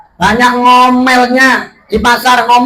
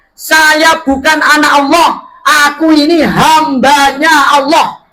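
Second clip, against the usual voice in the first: firm rebuttal; 4 semitones higher, slower than usual. Retold or imitated. Baby Isa answers voiced.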